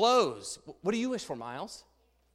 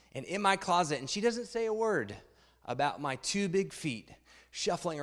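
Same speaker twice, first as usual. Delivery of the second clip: put-on reading a children's book aloud to the congregation; story reading; 2 semitones lower than usual. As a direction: tell it like a picture book to a room.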